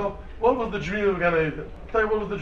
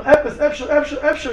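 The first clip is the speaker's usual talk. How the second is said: mimicking mumble; 7 semitones higher than usual. Mimicking people searching for tears.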